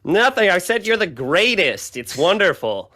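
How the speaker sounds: high, loud, fast fake cheer; nervous cover-up. Rat caught muttering, covering with high loud cheer. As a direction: backpedal in a squeaky rush.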